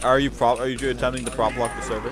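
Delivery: raging gamer. Real, not acted. Accusing player of prop blocking.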